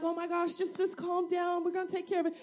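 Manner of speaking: mock a concerned uncle soothing his sister; imagined soothing uncle. Uncle calming his upset sister, mock soothing. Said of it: "being an uncle, he'd be like".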